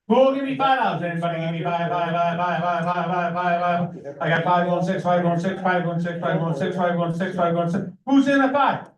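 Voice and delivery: rapid rhythmic auction chant; auctioneer. Real, not acted. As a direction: rattle off bids like an auctioneer. Auctioneer calling bids.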